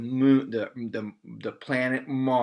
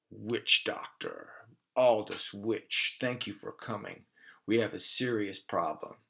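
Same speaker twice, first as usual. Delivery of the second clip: solemn; 3 semitones lower, 6 dB quieter than usual. Acted. Von Nebula greets witch doctor.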